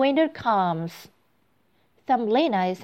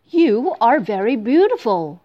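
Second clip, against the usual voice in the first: ugly toad voice; 3 semitones higher, 6 dB louder than usual. Acted. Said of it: "he says".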